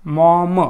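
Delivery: मॉम blended, with a long open "aw"; blended word. Shown as a demonstration. Teacher putting the sounds together, मॉम said deliberately. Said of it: "असा उच्चार करतोय".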